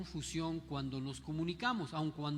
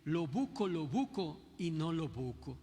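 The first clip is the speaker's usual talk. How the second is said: put-on Yucatecan accent. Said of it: "Una que me recuerdo mucho es que decían".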